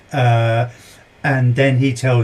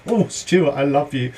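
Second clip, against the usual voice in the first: gushy. Pretend. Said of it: "I'm getting a bit gushy now".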